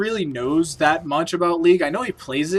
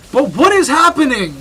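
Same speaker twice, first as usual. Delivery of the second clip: surprised; 7 semitones higher, 7 dB louder than usual. Real, not acted. Caster reacts to chaos.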